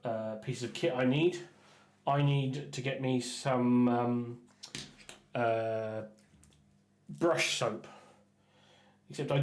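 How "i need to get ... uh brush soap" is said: slow, mock-serious drawn-out line; joking. To the viewers, joking about buying brush soap, slow and mock-serious. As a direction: play it as a joke about needing gear. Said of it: "I joke about it".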